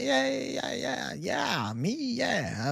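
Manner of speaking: high, drawn-out, overeager yeahs; retold nervousness. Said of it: "I'm, like, nervous".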